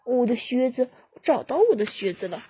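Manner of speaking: a mild sudden cry of joy; mildly excited call. Acted. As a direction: blurt it out, thrilled to find them. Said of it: "塞勒斯突然喊道".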